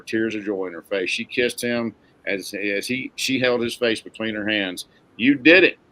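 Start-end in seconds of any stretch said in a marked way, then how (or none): 5.2-5.8 loud, excited burst. A narrator's reading. Mel congratulates Rocky after his ride, excited. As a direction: cheer it out with excitement. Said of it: "she said excitedly".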